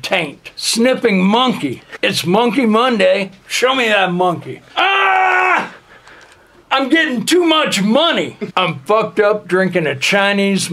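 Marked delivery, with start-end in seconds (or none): 4.8-5.7 sudden high shouted cry; hammed-up wild scream; high yell. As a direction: belt out a short high scream. Outburst after monkey line.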